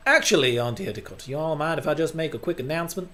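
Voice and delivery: lightly done southern drawl. Acted. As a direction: attempt a mild southern accent for a polite announcement. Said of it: "you just have to do the southern drawl accent".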